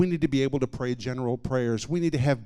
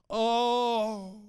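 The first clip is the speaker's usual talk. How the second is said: long, high-pitched "oh" of anguish; exclaimed cry; 10 semitones higher than usual. Retold or imitated. Sick woman crying out as rejection leaves her, exclaiming.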